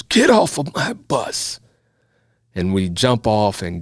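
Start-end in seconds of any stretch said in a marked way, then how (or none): 0.0-1.6 high, slow barked order off the bus; drill instructor yell. Retold or imitated. Drill instructor yelling at sleepy recruits to get off, high and slow. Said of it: "and he yells".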